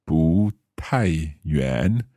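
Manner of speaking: slow 不太远 with 不 rising then 太 falling; tone demo. Shown as a demonstration. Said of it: "So that's the second and then the fourth".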